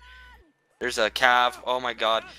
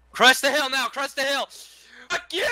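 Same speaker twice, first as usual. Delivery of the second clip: battle shout; 12 semitones higher than usual. Real, not acted. Leading a charge in battle.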